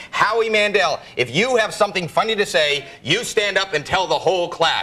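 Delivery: a hint of a schoolteacher calling him out; teacher scolding the class clown. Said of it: "the teacher going".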